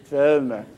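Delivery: Welmer with a V, placed at the front of the mouth; German-style Welmer from the tip of the mouth; German pronunciation. Shown as a demonstration. Demonstrating the German surname to the audience, Welmer with a forward German V. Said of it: "spoken from the tip of the mouth".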